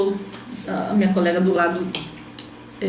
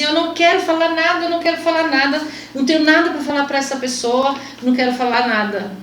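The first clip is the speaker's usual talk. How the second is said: upset refusal; 4 semitones higher than usual. Retold or imitated. Retold refusal to the psychologist.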